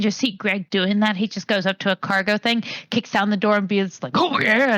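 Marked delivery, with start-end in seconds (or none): 4.1-4.8 Kool-Aid Man. Acted. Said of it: "talking about the Kool-Aid Man".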